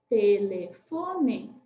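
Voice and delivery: te-le-fo-ne, cada sílaba separada e lenta; syllable-clapped. Shown as a demonstration. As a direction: bata palma em cada sílaba de "Telefone". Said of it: "Fomos de novo, quatro palmas". (palavra dita sílaba por sílaba, bem devagar)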